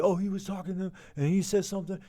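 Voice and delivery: a hint of a student telling his side; mildly played kid voice; student explaining. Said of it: "they'll tell you".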